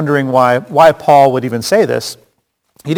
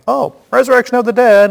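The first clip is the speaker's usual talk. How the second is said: higher, loud sudden cry; distracting shout; 10 semitones higher, 4 dB louder than usual. Paul distracting the council from his mistake, sudden shout. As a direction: blurt it to divert everyone. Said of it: "He's like".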